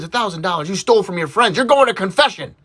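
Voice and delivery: acted outraged father; scolding dad. Dad learns his son overcharged friends, scolding. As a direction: scold the boy, rising as you go.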